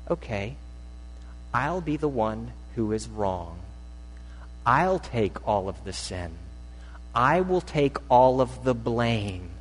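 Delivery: a lightly voiced Jesus, quiet and humble; humble acceptance. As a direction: accept the blame gently. Jesus voiced taking blame.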